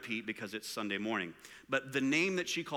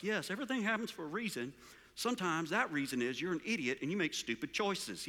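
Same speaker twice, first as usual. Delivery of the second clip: put-on southern accent; 3 dB quieter than usual. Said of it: "with his southern accent".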